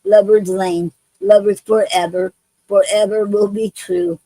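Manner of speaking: gentle rhythmic poem recital; poem reading. Acted. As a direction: read each line like a chain of vows, pausing between. Reads her own love poem.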